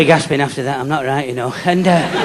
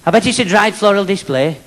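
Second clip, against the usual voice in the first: teacher voice; 4 semitones higher than usual. Retold or imitated. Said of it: "She said".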